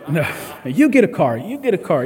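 lightly voiced game-show host handing out cars; giveaway host. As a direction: play the excited prize giver, only a hint.

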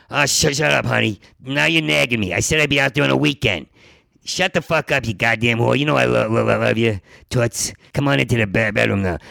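lightly imitated tough guy; put-on tough voice. A guy on the phone to his wife, mock tough. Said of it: "they put on this tough voice".

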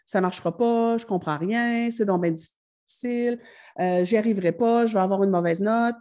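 discouraged self-talk, picking up speed; a hint of a panicked student talking to herself; negative inner voice. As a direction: rattle off the defeatist thoughts. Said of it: "tendance à avoir un discours interne négatif".

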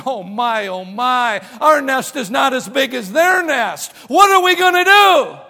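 hammed-up anxious bird; fretting bird. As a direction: play a fussing bird that spirals into alarm. Bird frets over its nest.

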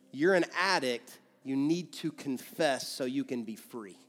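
calm, gentle voice of conviction. Shown as a demonstration. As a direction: state it, then soften. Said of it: "You hear the difference?".

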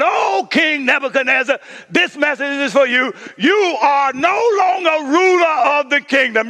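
a booming heavenly decree. Acted. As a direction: proclaim it from above. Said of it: "a voice called down from heaven".

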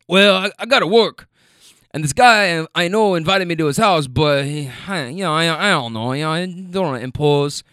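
put-on hesitant, in a light South American accent; a not-so-good South American accent, faltering. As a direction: passenger talking about his plans, in a mild South American accent. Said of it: "so I'm trying to do the accent".

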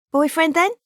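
high, loud teasing rise on then; quick carry-on jibe at the lad; cheeky banter. Acted. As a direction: needle him with a cheeky grin. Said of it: "cheekier, carry-on style of banter".

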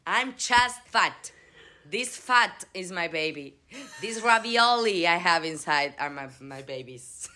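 lightly hammed defiance to a nosy stranger; mock defiant reply. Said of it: "It's like".

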